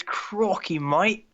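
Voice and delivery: high, exclaimed mock Aussie catchphrase; hammed-up Australian accent; bad Australian accent. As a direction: do a badly faked Australian accent. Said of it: "I suck at Australian accents".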